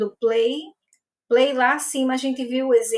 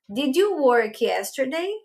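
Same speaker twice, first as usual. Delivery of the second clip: slow, careful English question with a rise at the end; teacher models the question slowly for students; slower than usual. Shown as a demonstration. Teacher shows students the English question, slow and clear. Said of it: "Então".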